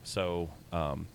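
tinny mic, like inside a metal tube; hollow metal-tube sound; through a tube. Real, not acted. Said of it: "if I sound like I'm in a metal tube".

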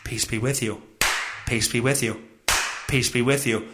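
low, soft mock youth-minister blessing. Host mocking a youth minister, low soft mock blessing. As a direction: parody a preacher's hushed benediction. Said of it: "perfect way for a youth minister to give the old".

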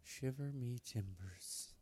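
slow, soft pirate growl; lightly voiced pirate. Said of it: "That's what Batman says".

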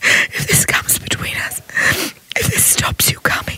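whispered through tears; tearful plea. Acted. Barbara pleading with her lover, whispering through tears. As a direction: beg him softly, voice breaking.

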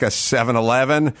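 ordinary talk, nothing marked

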